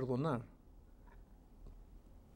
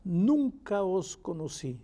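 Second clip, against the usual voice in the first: solemn declaration. Acted. Preacher reads Christ's answer to false followers, slow solemn rejection. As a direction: pronounce judgement slowly, letting it fall away. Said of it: "Entonces les declararé".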